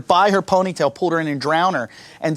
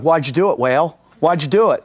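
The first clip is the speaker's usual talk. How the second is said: cop interrogation; 4 semitones lower than usual. Retold or imitated. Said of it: "like an episode of Law and Order".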